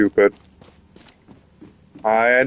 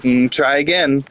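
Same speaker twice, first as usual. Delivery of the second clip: SpongeBob voice; 4 semitones higher than usual. Retold or imitated. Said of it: "SpongeBob would be like".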